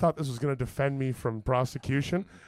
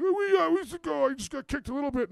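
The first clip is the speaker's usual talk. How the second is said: high, whimpering mock voice; high-pitched, feeble bail-out; hurt guy backing out; 12 semitones higher than usual. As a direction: play a wounded guy making excuses. Acts out kicked guy wanting out.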